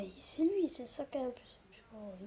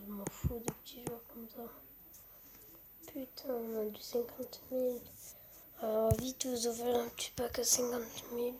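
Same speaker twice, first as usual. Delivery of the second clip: voix chuchotée pour ne pas réveiller; murmure, tout bas; chuchoté; 7 dB quieter than usual. Real, not acted. Whispering at night. (chuchote, il fait nuit)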